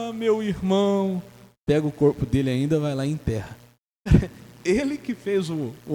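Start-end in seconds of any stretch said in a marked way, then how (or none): 0.1-1.2 slow, high mock wail on "meu irmão"; hammed-up lament; mock weeping. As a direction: fake grief from the old prophet. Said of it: "chorando, fala".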